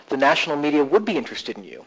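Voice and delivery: "would" stressed to contradict. Shown as a demonstration. Coach telling someone the opposite belief, stress on "would". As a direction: affirm it with weight on "would". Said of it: "tell them the opposite".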